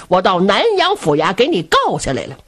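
lightly voiced grave keeper, stress falling on 告; grave keeper's threat. Grave keeper tells Zhu Can he has sued him, a firm falling threat. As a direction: say 告 firmly as the final blow.

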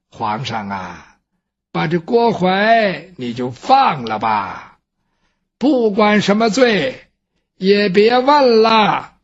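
put-on weak, slow old dowager begging the emperor; dying dowager's plea. The dying dowager begs the emperor, faint and slow.

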